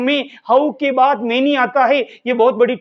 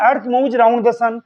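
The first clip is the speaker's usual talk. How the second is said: each English word spaced out very slowly; deliberate classroom dictation pace; much slower than usual. Shown as a demonstration. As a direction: read it out slowly for students to write down. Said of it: "teacher dictating example sentence".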